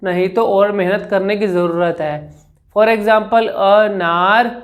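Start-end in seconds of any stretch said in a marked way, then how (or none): 2.8-4.5 slow demo. Shown as a demonstration. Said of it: "अ के ऊपर मैंने जोर लगाया तो मैं रुक गया".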